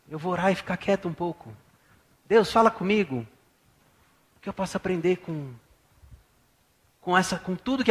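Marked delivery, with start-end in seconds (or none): 2.3-3.3 earnest prayer. Shown as a demonstration. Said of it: "fala assim".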